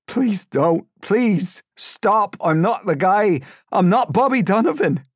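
loud, high, desperate pleas; panicked high cries of denial; crying, begging. A narrator's reading. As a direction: beg for your life. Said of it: "He was crying".

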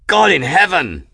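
high, loud, shocked exclamation; gasped cry. A narrator's reading. Crewman watching the temple collapse, shocked gasp. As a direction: gasp it out in alarm. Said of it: "one of the men gasped".

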